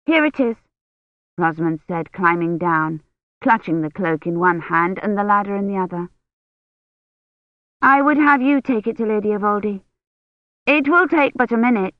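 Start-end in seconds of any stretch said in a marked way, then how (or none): 0.1-0.6 put-on lightly raised girl's voice, eager; a young daughter handing over a cloak; Rosamond, bright girl. A narrator's reading. Rosamond's voice in story. 7.8-11.9 put-on lightly raised girl's voice, eager; a young daughter handing over a cloak; Rosamond, bright girl. A narrator's reading. Rosamond's voice in story.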